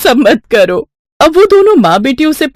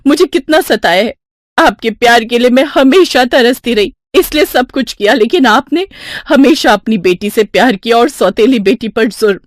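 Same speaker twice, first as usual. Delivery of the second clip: higher-pitched, aggrieved reproach; wronged stepdaughter; 3 semitones higher than usual. Acted. Rupali confronting her stepmother, aggrieved reproach. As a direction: pour out the hurt to her.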